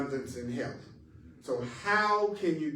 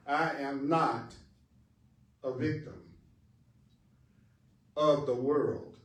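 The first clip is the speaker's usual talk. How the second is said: slow paced reading. Shown as a demonstration. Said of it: "And I like to say".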